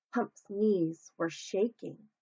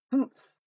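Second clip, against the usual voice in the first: sleepy humph; 5 semitones higher, 6 dB louder than usual. A narrator's reading. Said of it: "said Humph sleepily".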